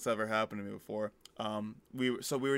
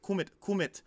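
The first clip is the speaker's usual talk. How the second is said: put-on higher-pitched little kid calling; imitated toddler; 8 semitones higher than usual. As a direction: mimic a small child beckoning. Imitates German toddler beckoning.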